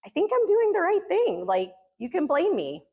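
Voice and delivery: lightly acted smug elder; a hint of a smug church elder; mock arrogance. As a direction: play up his self-righteous tone. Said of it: "this little arrogance of".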